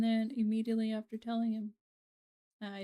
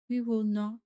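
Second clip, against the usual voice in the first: roaring rallying speech; 4 dB louder than usual. Pretend. Mock battle speech.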